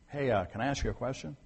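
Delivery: calm, unforced polite question; calm request. Retold or imitated. Paul to the commander while carried up the steps, calm. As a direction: ask evenly, without raising the voice. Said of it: "You see, he was calm".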